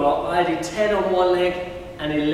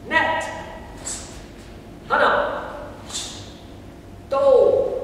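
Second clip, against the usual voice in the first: counting in Korean; 2 semitones higher, slower than usual. Shown as a demonstration. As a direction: bark each Korean number like a martial arts call.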